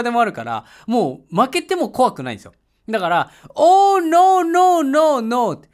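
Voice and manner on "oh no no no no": high, loud, drawn-out "Oh, no, no"; lightly hammed-up refusal of the driver's offer; mock haggling refusal. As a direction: play the pushy bargainer turning down the price.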